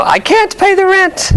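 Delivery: very high wailing heroine voice; damsel in distress. Acted. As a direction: squeal it like a helpless heroine. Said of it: "I just put on three masks".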